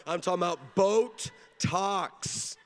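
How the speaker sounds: "boat talks" drawn out slowly to sound like Botox; slow pun on "boat talks"; punning slowly. Shown as a demonstration. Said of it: "Botox up in here".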